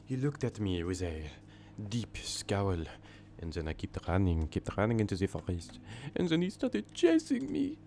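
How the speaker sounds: telling a horror story in a hammed-up French accent; a breathless French storyteller, rising to a high squeal. Streamer reading horror stories to chat in a French accent. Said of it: "Maybe I'll do a French accent".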